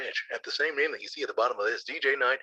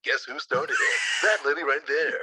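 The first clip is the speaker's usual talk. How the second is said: hype man ad. Acted. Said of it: "be my hype man".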